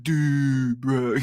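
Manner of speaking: soy voice. Retold or imitated. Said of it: "the new soy voice".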